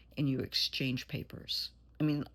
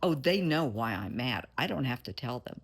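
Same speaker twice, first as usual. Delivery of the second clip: louder, sulky mock tone of a childish adult; sulky mock quote; 3 semitones lower, 6 dB louder than usual. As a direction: play the grown-up who pouts instead of talking. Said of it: "start in with this".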